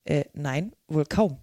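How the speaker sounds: mildly placating Alice; coaxing tone. A narrator's reading. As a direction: soothe gently, a little sheepishly. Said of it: "sagte Alice in zuredendem Tone".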